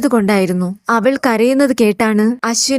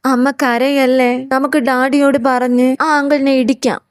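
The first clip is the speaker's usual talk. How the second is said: consoling little son; 2 semitones higher than usual. Acted. Son comforting his crying mother, lightly voiced consoling child. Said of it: "Ashwin പറഞ്ഞത് കേട്ട്".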